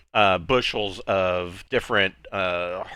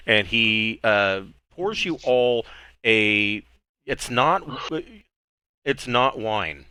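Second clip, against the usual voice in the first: normal talking voice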